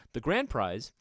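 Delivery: loud, building hype reveal; booming prize announcer. Acted.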